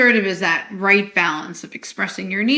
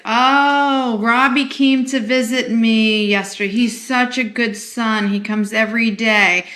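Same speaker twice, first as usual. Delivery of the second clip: guilt tripper; 2 semitones higher than usual. Retold or imitated. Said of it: "anyone's a guilt tripper".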